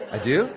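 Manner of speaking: "I do" with a steep questioning rise on "do"; questioning doubt. Retold or imitated. Bride answering at the wedding, "I do" doubtfully rising like a question. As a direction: say "I do" as an unsure question, "do" swooping upward. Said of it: "how my wife said it".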